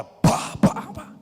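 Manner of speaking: breathy knocking sounds; imitated knocking. Police knocking at the missionary's door.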